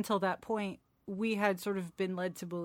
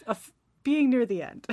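laughing; 6 semitones higher, 13 dB louder than usual. Real, not acted. Laughing at the sad ending.

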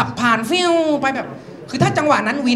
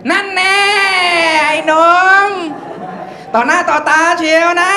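gotcha policeman; 6 semitones higher than usual. Acted. Policeman nabbing a youngster red-handed, high gotcha call. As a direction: crow it like an officer catching someone. Policeman catches him, acted.

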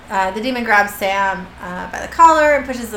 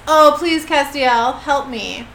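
mild mock begging; plead, starting higher and louder, then fading; half-hearted acted plea; Metatron; 4 semitones higher, 3 dB louder, slower than usual. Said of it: "Metatron is begging now".

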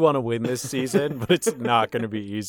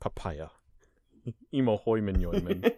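minion gibberish; squeaky little henchman babble; mindless servant voice; 4 semitones lower, 6 dB quieter than usual. Pretend.

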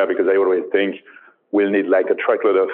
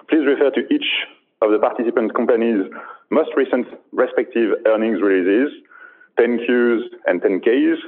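put-on thick French accent. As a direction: read it in a heavy French accent. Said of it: "a safe harbor statement with a very thick French accent".

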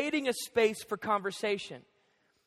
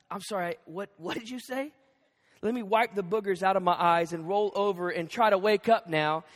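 groggy wife; 3 semitones lower than usual. Retold or imitated. Wife woken at night by her husband, mock groggy. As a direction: mumble like you've just been woken up. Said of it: "She's gonna be like".

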